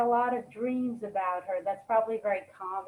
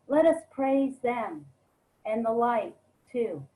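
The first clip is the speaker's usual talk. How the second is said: measured phrases with pauses between images; poem reading. Acted. Poet reads a dream of her late mom to listeners, measured poem reading. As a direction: read each line as its own image, unhurried.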